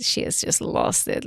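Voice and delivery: hushed whisper; whispered aside to the viewers. Real, not acted. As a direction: breathe it out under your breath. Reacting to a character's breakdown.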